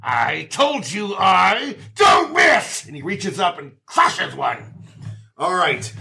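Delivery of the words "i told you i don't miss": slow shouted boast; slow angry monster taunt; gloating monster. Acted. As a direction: growl the taunt slowly.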